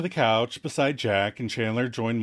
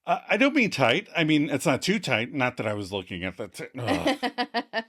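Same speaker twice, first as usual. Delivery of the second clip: acted awkward stammer ending in ugh; flustered stammer. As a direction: backpedal in a mock fluster. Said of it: "Chandler stammers".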